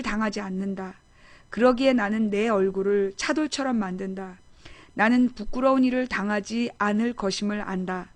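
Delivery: measured liturgical reading voice; scripture reading. Acted. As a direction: read it like a lector at Mass. Reads Catholic scripture passage aloud.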